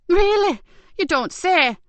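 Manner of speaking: high, loud mocking retort; scornful eye-roll voice; sarcastic. Carer mocking Ben's facility remark, sarcastic.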